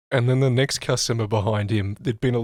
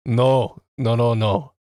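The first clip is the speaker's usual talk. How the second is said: louder, urgent repeated no; 4 dB louder, much slower than usual. Retold or imitated. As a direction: stop him fast, pushing the no out. Bald man stops eye rubbing.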